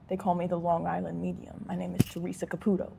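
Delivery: mock Long Island and Jersey accent; Teresa Caputo. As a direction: introduce yourself with a hint of Jersey accent. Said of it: "Jersey accent".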